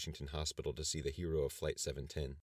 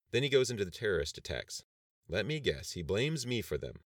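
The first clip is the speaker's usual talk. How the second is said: louder, higher, building toward a blow-up; a president about to explode; rising anger; 5 semitones higher, 5 dB louder than usual. A narrator's reading. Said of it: "going to explode in a rage".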